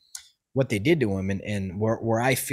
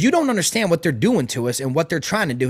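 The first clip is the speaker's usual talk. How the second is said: angry scolding; 4 semitones higher than usual. Retold or imitated. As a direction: chew him out like a furious soldier. Military driver angrily scolding him.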